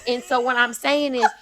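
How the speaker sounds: motivational Southern belle; Southern accent. Pretend. Southern belle tells listeners to let go, accent kept up. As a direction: preach self-worth gently in a Southern accent. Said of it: "I'ma keep the accent".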